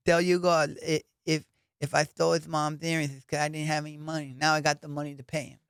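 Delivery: a touch of the champ's gentle lilt; imitating Mike Tyson. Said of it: "and Tyson goes".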